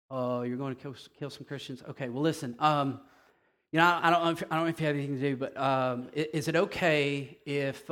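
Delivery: hesitant, apologetic, halting plea; a mock-timid Jesus begging for permission; timid pleading Jesus. Preacher mocks a timid Jesus pleading with Paul, apologetic. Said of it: "Here's how we would put it".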